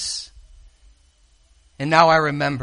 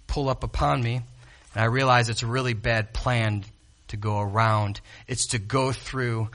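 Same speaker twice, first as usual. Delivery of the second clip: much softer, lower thankful musing; quiet gratitude; 5 semitones lower, 8 dB quieter than usual. Real, not acted. Preacher to congregation, soft and grateful.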